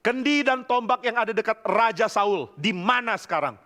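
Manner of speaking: high-pitched challenge called out from afar; retold shout. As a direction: imitate calling across to a camp. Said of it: "Lalu yang teriak, yaitu Daud".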